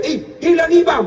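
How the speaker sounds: a half-hearted schoolboy shout; retold shout. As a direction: call out that the imam is gone. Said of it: "langsung dia teriak".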